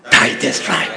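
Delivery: a low, hushed declaration of right; tither's claim, low and breathy. Retold or imitated. Preacher voicing the tither's answer, low and hushed. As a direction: hush it out like a secret claim. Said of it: "I have what?".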